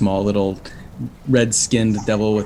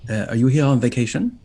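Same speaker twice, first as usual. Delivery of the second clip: higher, stammering fussy little devil; flustered imp professor; 4 semitones higher, 4 dB louder than usual. Acted. Imp professor introducing himself to travellers, flustered and fussy. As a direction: trip over the words like a nervous bureaucrat. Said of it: "devilish imp".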